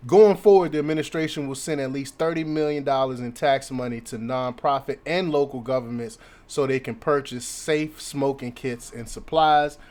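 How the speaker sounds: news article read aloud with punched openings. Acted. Commentator reads the article to viewers, news read.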